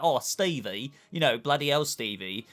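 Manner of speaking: exaggerated cockney-ish British accent, lightly done; mock British accent. Mocking Stephen and Donna's accents, light mock British accent. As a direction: tease a TV Brit with a light parody accent. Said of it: "a review of Moon Knight's accents".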